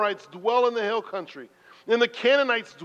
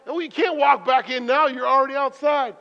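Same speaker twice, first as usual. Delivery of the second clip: higher, louder self-excuse; anxious inner voice; 7 semitones higher, 6 dB louder than usual. Retold or imitated. Excuse to himself in the parking lot, higher and louder. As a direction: talk yourself out of it. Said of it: "I'm like".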